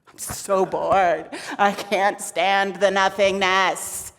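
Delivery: slow, drawn-out boredom; bored complaint. Acted. Shakti fed up with nothingness, bored. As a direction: drag it out, fed up.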